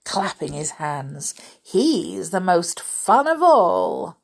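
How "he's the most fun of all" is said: slow, loud gleeful cheer. Acted. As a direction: say it with glee. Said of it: "said gleefully".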